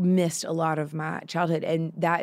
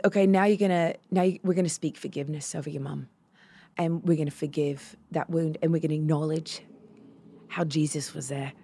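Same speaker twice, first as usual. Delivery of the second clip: lightly imitated prayer leader, settling softer; Mia; 3 semitones lower, 4 dB quieter than usual. Prayer leader guides a girl to forgive her mom, lightly imitated. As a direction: softly mimic someone leading forgiveness. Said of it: "You do Mia very well".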